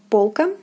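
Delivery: полка with a full "o"; careful model полка for learners; stressed O. Shown as a demonstration. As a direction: say полка as "POL-ka". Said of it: "is pronounced as in the alphabet".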